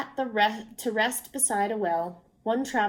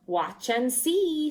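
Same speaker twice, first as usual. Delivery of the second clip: with glee; 2 semitones higher, slower than usual. A narrator's reading. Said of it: "said one of the travelers with glee".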